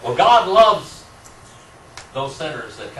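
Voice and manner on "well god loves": laughing. Real, not acted. Laughing reply to student's joke.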